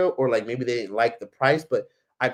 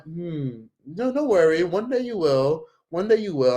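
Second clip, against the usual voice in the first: lightly acted soothing, slightly higher voice; playing therapist; 4 semitones higher than usual. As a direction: humour a stranger with careful encouragement. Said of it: "I'm playing therapist 'cause I'm scared".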